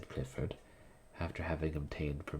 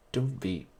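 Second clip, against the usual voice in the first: urging; 3 semitones higher, 6 dB louder than usual. Acted. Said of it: "he urged".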